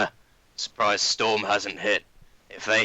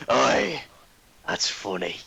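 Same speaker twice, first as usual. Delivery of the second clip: ordinary delivery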